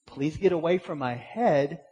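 mild, politely measured shooing; a touch of courteous pleading; polite little request. Acted. Man politely shooing a bee from his head, polite. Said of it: "doing a polite little".

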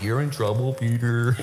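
smirking John. Retold or imitated. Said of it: "John's over there just smiling like".

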